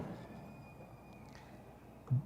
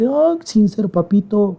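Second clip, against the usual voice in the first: much higher, informal plea; sincere prayer; 5 semitones higher than usual. Acted. Preacher models speaking to God as best friend, spontaneous. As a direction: address God like a dear daddy. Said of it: "ser espontáneo".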